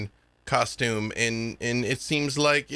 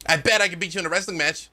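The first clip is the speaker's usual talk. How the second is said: eager brag; 4 semitones higher, much faster than usual. Acted. Child challenging a warrior.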